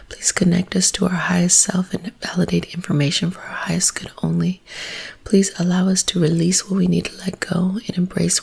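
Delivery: soft whispered spiritual invocation; whispered prayer. Acted.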